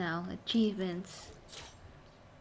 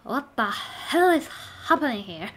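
Angry Joe catchphrase in a loud whisper; a half-hearted Angry Joe line; imitating Angry Joe; 5 dB louder than usual. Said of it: "like Angry Joe says".

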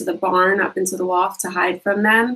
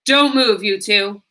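commanding officer. Acted. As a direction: order them to freeze. Police officer stops the crooks.

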